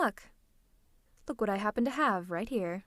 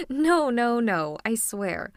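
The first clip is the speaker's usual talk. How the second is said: amused protest; 3 semitones higher, 6 dB louder, slower than usual. Acted. Laughing denial of using sleep ray.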